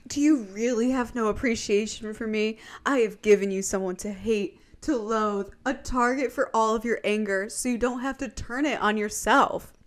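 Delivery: mildly indignant retold speech, building at the end; mock offended. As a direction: plead your case as the wronged benefactor. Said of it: "he's so offended".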